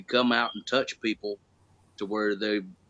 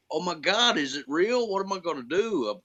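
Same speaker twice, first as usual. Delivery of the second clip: retold starstruck panic, pitched higher; overwhelmed disbelief; 6 semitones higher than usual. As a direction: play at being overwhelmed and lost. Retold overwhelmed thoughts before the promo.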